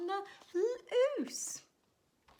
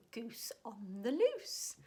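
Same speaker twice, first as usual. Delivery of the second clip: whisper; slower than usual. Acted. Whispered title to children.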